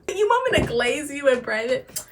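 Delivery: incredulous question through a laugh; laughing disbelief. Real, not acted. Laughing at the guy who asked her to go private. Mocking his reply, laughing.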